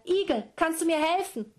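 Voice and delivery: high, loud, out-of-breath call; breathless call. Acted. Kelolan begs the hedgehog for help, high and breathless. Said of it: "Und außer Puste rief er".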